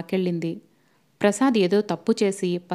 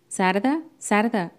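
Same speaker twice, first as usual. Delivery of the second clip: shouting call; much slower than usual. Acted. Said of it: "కల్పన అరుస్తూ".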